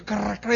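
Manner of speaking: loud ratcheting mouth noise; high, rattling crank sound; imitated machine crank. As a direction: mimic a toy capsule machine cranking.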